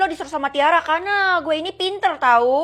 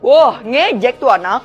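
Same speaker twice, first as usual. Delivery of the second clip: offended grumble; 3 semitones lower, 6 dB louder, slower than usual. Acted. Guard offended by student.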